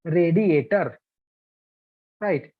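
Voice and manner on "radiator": radiator as ray-dee-AY-ter; "radiator" with long a and Indian r; Indian pronunciation. Shown as a demonstration. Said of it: "for us Indian people".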